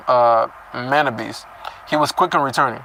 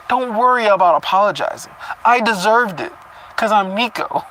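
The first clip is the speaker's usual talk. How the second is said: lightly higher, fawning parody of Nico; mocking Nico; 6 semitones higher than usual. Reader parodying Nico doting on Cecilia, light fawning voice. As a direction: play him as a lovesick simp. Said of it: "he waved away my apology".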